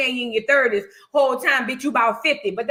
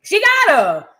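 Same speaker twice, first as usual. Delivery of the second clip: emphatic repeat; 5 semitones higher, 6 dB louder, slower than usual. Shown as a demonstration. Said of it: "repeat louder for emphasis".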